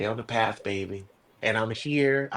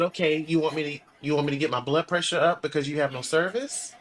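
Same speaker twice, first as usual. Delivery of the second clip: incredulous; 3 semitones higher, faster than usual. Retold or imitated. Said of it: "I said".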